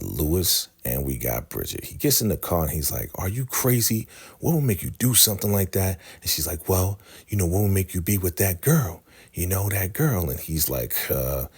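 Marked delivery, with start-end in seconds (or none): 3.1-6.0 higher-pitched retold scolding; incredulous confrontation. Lewis confronts her in retold quarrel. 6.7-10.3 higher-pitched retold comeback; accusing retort. She throws the accusation back.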